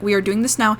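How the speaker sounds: put-on stern doctor in a rough Indian-esque accent; firm words, loosely imitated Indian-esque accent; attempted Indian-esque accent. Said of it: "trying to do an, I think, Indian-esque accent".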